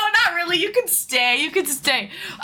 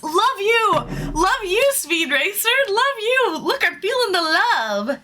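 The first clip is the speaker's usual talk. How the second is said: excited; 6 semitones higher than usual. Real, not acted. Thanking viewers affectionately.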